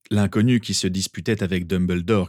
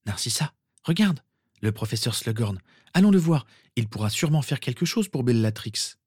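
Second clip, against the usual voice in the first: lightly voiced eager girl, higher at the call; Andromeda pressante; 4 semitones higher than usual. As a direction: urge your sister along with a hint of hope. (jeune fille légèrement pressante)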